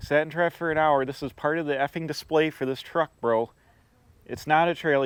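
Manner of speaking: normal talking voice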